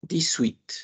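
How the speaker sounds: dix-huit said diswit, the S linked to the U; teacher modelling the linking in dix-huit; French dix-huit. Shown as a demonstration. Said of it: "y dicen".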